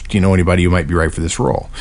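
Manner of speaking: fast, rushed question; quick throwaway read. Shown as a demonstration. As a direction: skim over the question quickly. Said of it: "forget what the question is, which is".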